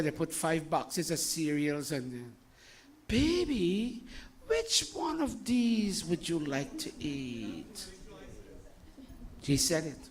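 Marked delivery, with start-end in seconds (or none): 3.1-7.9 slow, drawn-out doting question; coddling parent. Acted. Parent offering a child five cereals, slow and coddling. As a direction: stretch it out, pampering a small child. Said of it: "American kids, look at me".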